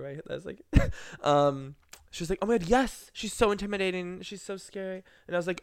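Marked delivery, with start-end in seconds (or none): 2.4-5.0 mock awe. Girl agreeing the singer is scary, high mock awe.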